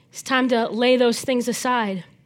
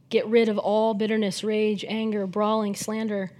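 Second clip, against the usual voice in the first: soft reflective reread; 2 semitones lower, 4 dB quieter than usual. Shown as a demonstration. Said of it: "we could all just kinda sit and soak in that".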